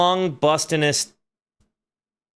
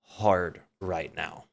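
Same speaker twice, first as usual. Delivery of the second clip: shaken; 5 semitones lower, 6 dB quieter, slower than usual. Real, not acted. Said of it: "My heart is beating so hard".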